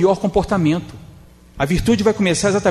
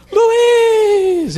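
high, loud call across the room; shouting a name; 6 dB louder than usual. Retold or imitated. Lady at the spiritist centre yelling after Luiz, high and loud. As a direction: call out to him from far off. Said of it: "grita assim".

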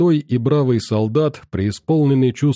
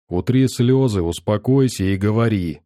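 calm quiet voice. Acted. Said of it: "тихим, спокойным голосом".

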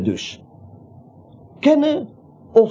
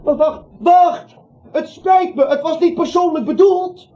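angstig; 9 semitones higher than usual. Acted. Hij roept dokter angstig na.

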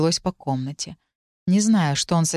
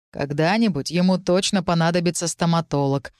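usual speaking voice

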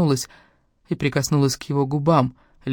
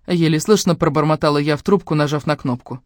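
plain reading voice

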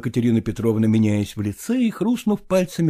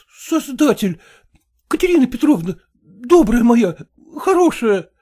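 tearful; 11 semitones higher, 5 dB louder than usual. Acted. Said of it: "Бормотал он весь в слезах".

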